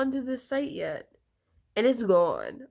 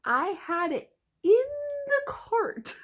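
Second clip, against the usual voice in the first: near tears; 13 semitones higher than usual. Real, not acted. Upset about the lost cart.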